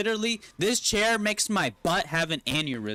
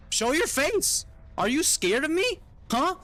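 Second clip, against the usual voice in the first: taunting shout; 12 semitones higher than usual. Real, not acted. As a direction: call him out, mocking. Taunting hidden enemy in game.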